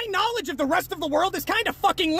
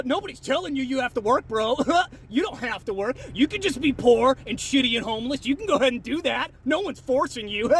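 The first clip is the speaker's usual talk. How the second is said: mocking commenter; 5 semitones lower than usual. Reading a commenter in character.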